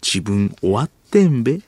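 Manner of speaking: clumsily put-on Tokyo accent; odd standard Japanese. Kansai actor rehearsing drama lines, botched Tokyo accent. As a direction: overdo the eastern endings, strange intonation. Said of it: "発音おかしい".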